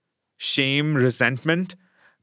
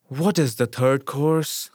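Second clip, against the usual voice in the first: weary, injured; slower than usual. Acted. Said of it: "in a weary, injured voice".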